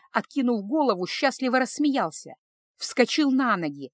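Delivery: ordinary delivery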